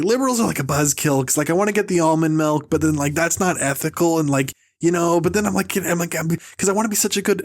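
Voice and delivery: mildly whiny podcaster imitation; Marc Maron. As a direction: complain in a slightly whiny rush. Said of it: "just this whiny thing".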